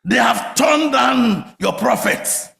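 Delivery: loud slow protest to God; mock complaint to God. Elijah protesting to God, loud and slow. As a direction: shout the complaint up to heaven. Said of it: "Elijah was busy telling God".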